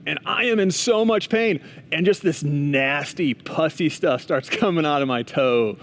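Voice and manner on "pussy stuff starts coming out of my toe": real laugh breaking into the words; amused telling, lower pitch with a small laugh. Real, not acted. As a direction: laugh partway through the gross detail. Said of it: "I don't know why I'm laughing now".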